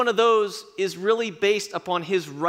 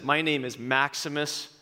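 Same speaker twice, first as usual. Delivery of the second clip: a hint of Russell Crowe's grave defiance; Maximus speech; 2 semitones lower than usual. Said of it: "And he says".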